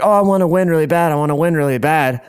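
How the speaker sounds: high, eager mock pleading; imitated eager sister. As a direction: imitate an excited sister wanting it badly. Sister voiced begging to win.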